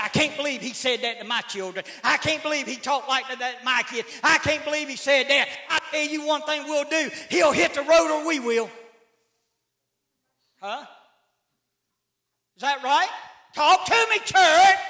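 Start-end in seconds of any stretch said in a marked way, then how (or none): 0.0-8.7 indignant mama. Retold or imitated. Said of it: "mama runs around and says".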